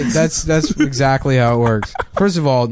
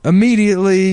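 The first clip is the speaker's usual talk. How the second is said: Steve Harvey impression; 6 semitones higher than usual. Continues Harvey bit.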